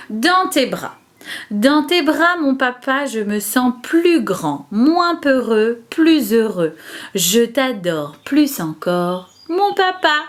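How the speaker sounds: slow, measured verse, line by line; poem recitation. Shown as a demonstration. Teacher reciting a Father's Day poem for children to learn, slow recitation. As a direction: recite it slowly, phrase by phrase for children. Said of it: "On va la réciter ensemble".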